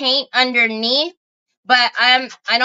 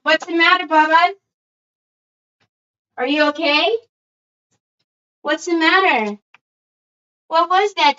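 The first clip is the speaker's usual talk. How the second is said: concerned dog talk; 2 semitones higher than usual. Real, not acted. Soothing dog after bad dream.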